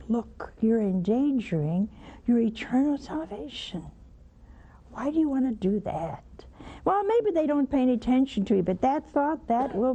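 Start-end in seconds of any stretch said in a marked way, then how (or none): 0.1-6.2 gentle warning. Shown as a demonstration. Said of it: "in a nice way".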